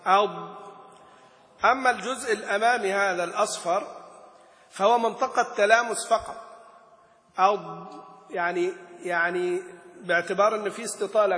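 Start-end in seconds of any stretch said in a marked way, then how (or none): 0.1-0.6 "أض" leaning hard on the tongue's side edge; pressed Dad. Shown as a demonstration. Teacher demonstrates pressure on the tongue edge, "أض" firmly pressed. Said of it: "الضغط والارتكاز عليه". 7.4-7.9 "أض" with the final ض pressed and held; pressed Dad. Shown as a demonstration. Teacher shows the articulation point, "أض" with a pressed Dad. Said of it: "الضغط والارتكاز عليه".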